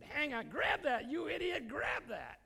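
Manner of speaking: high, slow yelling at a drowning man; retold scream. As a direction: shout it over the waves, half acting it out. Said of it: "he screamed and screamed at me".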